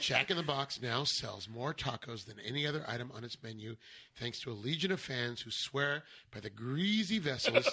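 deadpan NPR narration; NPR style. Acted. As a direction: read it like a serious radio essay. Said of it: "N P R style?".

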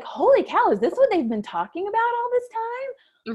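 high, teary amazement; awestruck wonder. Retold or imitated. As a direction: gush in tearful disbelief. Awestruck right after the birth.

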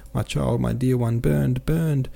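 high-pitched lament, lightly acted sob; sobbing wail. A narrator's reading. Mother mourns her child left in the fire, mildly sobbing wail. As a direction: wail it with a touch of tears, pitch climbing. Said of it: "again she began to sob".

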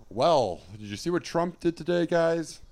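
high-pitched talk-show host setup; Seth Meyers. Acted. Host asking audience about the news, high impression voice. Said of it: "That's my Seth Meyers impression".

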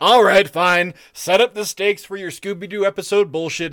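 grudging all right, fine with a laugh; All right, fine said through a laugh, giving in; caving in with a laugh; laughing give-in. Retold or imitated. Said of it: "It's like".

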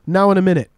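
NOW IN A MINUTE run together as one word. Shown as a demonstration. Host quizzing his friend on Welsh slang, run together. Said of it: "gotta be said as one word".

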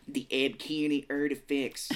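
slow actor impression drifting into Boston; accidental Boston accent. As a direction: stretch it out in a badly faked Boston accent. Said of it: "it's coming off as Boston".

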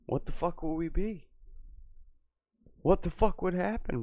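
high, hushed mock-panicked question. Streamer to chat, high hushed mock panic. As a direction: ask it like a spooked conspiracy caller.

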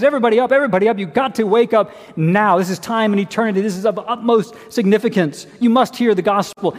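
a father shouting his family out of bed; urgent wake-up call. Retold or imitated. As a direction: call the house awake, urgently. Jailer rousing his sleeping household.

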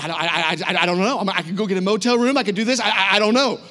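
stammering, flustered retelling. Retold or imitated. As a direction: stumble over repeated starts, at a loss. Retelling his flustered answer to Jaylene.

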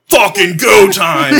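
high, loud, drawn-out battle cry; hyped-up shout. Retold or imitated. Dogs rushing the back door, hyped-up shout. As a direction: shout it like a dog charging out.

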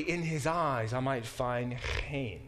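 chen said with a throaty ch, like Hebrew. Shown as a demonstration. Preacher teaching the Hebrew word, throaty chen. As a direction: say chen with a rasped kh sound. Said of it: "chen means grace".

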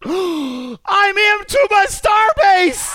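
gasp, then a high, loud, thrilled shout; excited shout. Real, not acted. Streamer shouts to chat on finally getting into his Starbase, thrilled. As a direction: yell it out in pure delight.

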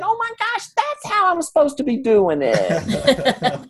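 light dawning, half laughing; sudden realization. Retold or imitated. Sudden realization, voice jumps high.

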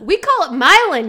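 Milan as MY-lun, stressed on MY; loud Midwestern "Milan" rhyming with "dylan"; local pronunciation. Shown as a demonstration. Explaining Illinois's town name, "Milan" said MY-lun. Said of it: "spelled just like Milan".

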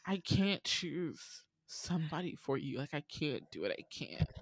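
quiet, mock tearful plea, fading to a breath; a soft teary voice that gives out; imitating crying. Contestant too upset to choose for her ex, quietly tearful. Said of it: "bawling. She's crying".

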